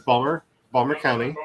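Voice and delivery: Balmer with the t dropped, two syllables; Balmer, the Baltimore way; local pronunciation. Shown as a demonstration. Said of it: "is pronounced Balmer".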